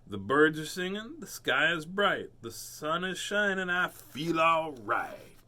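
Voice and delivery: lightly sung-song happy cat; bright cheerful cat, slowing on the last line; a hint of a groovy cat; upbeat Pete. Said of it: "and said".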